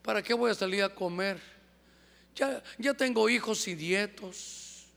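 lightly voiced weary retiree; mock aging complacency. Person turned sixty gives up striving, mildly weary. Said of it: "dicen que uno sabe cómo se avejenta".

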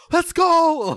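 high, loud mock scream; retold scream. Lone fan screaming at the game's start, high imitated cheer. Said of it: "the only guy screaming".

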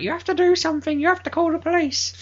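put-on high-pitched, urging old-lady voice. Old lady urging the site manager to act, high imitated voice. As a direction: imitate an old woman insisting on action. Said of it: "this old lady come".

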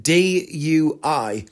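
"D U I" letter by letter, very slowly; "D U I" as three slow, distinct letters; spelled out. Retold or imitated. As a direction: spell "D U I" with each letter held separately. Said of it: "he spelled it out".

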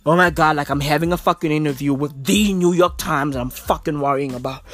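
mock worried Ninja. Mocking Ninja as a fretting streamer, whiny. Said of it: "who's out there worrying".

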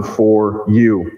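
"for you" with a falling "you"; stress on for you. Shown as a demonstration. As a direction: underline "for you". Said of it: "is the emphasis on".

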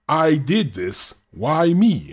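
high, loud, slow cry of I did this; all caps read out. Shown as a demonstration. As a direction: belt it like capital letters on the page. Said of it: "in all caps".

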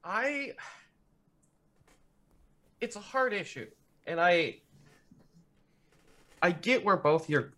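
hesitant. Acted. Son answering mom and brother at dinner, tentative. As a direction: feel your way in softly with long pauses.

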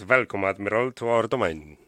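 lightly attempted German accent; a hint of a German officer's accent. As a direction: try a mild, unconvincing German accent. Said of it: "in the German accent".

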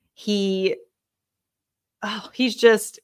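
overwhelmed, tripping over words; stuttering. Real, not acted. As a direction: stammer with real emotion. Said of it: "I feel like I'm stuttering a little bit".

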